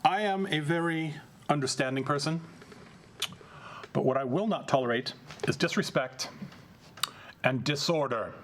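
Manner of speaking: a hint of a cold, slow condescending prince; menacing vampire prince. Vampire Prince Antonio addressing the heckling Brujah, slow cold condescension. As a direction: talk down to the upstart, unhurried.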